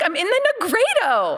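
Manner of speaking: high, fast, hammed-up outcry; mock exclamation. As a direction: cry it out high and quick, playing up the drama. Acted cry of recognition.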